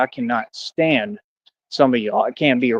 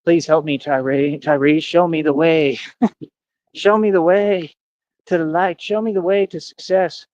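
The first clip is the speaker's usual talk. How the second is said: pleading with drawn-out, raised words; hammed-up begging for guidance, slow and imploring; mock groveling; 3 semitones higher than usual. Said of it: "coming to me groveling".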